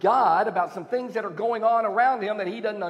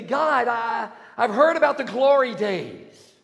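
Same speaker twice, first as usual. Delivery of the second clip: yearn for the glory days; a hint of an excited pleading believer; longing plea; 2 semitones higher, 4 dB louder than usual. Congregation voiced pleading to God.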